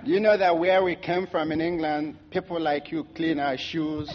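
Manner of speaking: lightly imitated Oxford accent, full of self-importance; mock Oxford accent. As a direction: put on an affronted Oxford-educated accent. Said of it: "with his British, uh, Oxford accent".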